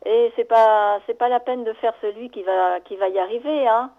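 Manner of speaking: lightly imitating a big brother's needling; a little provocative. Older brother needling his armless little brother, mildly provocative. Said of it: "d'un ton un petit peu provoquant à son égard".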